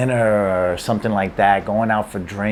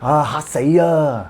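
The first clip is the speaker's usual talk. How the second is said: mock startled; 2 semitones higher than usual. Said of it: "anytime you scare somebody or somebody is scared".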